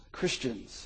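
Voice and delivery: soft, low scoffing mutter. Acted. Guard scoffing to himself, soft low mutter. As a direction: mutter it in disbelief. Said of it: "he muttered".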